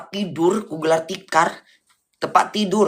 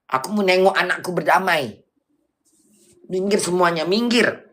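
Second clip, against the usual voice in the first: acted yelling. Wanting to see her children reconcile, mock yelling at bystanders. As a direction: demand a clear path, mildly hammed-up. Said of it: "Teriak-teriak aku".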